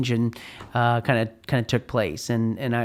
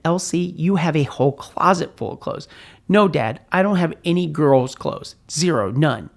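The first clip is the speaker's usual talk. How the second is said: higher, louder back-and-forth; heated argument; 6 semitones higher, 4 dB louder than usual. Retold or imitated. Father and daughter arguing over clothes, raised higher voices. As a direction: push back, frustrated.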